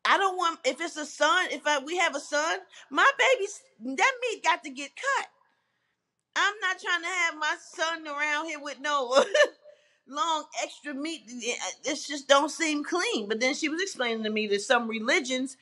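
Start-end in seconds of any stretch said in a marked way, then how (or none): 2.9-11.2 high and giggly; laughing. Real, not acted. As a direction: laugh through the words. Laughing about circumcision.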